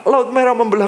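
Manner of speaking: mock Moses laughing at the parted sea; joyful laugh. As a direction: laugh through it in delight. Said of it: "Perasaannya itu ber-, kayak".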